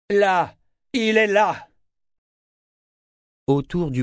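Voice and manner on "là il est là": high-pitched shout of discovery; urgent cry. A narrator's reading. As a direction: cry out as you spot him. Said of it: "Kénit poussa un cri". (cri aigu et pressant)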